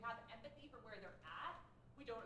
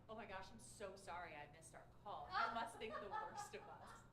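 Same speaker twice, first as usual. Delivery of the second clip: fake apology. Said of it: "I did a fake apology".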